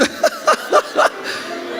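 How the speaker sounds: high airy wheezing laugh; wheezing laugh at the absurd message; high breathless laugh. Real, not acted. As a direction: burst into a silent high laugh. Laughing at the lawyer story.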